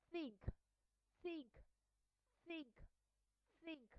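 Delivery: "think" opening on a voiceless TH; unvoiced TH. Shown as a demonstration. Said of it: "will be pronounced as unvoiced sound".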